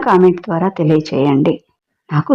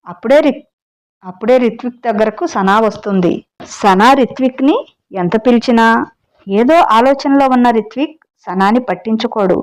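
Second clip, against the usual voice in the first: story narration. A narrator's reading. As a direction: tell the tale to your listeners, lightly dramatic. Reads the story aloud. (కథ చెప్పే స్వరం)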